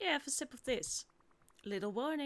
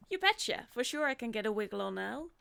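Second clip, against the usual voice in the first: Oswaldian slang talk; 5 dB louder than usual. Acted. Merlin answering Natalie, still under the slang spell, perky. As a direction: bounce it out like a twenties flapper. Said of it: "Oswaldian speech".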